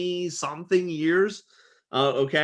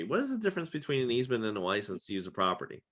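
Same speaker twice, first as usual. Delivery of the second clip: quicker, softer run-through of the question; fast quiet repeat; 4 semitones lower, 7 dB quieter, faster than usual. Shown as a demonstration. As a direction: rattle it off again, softer.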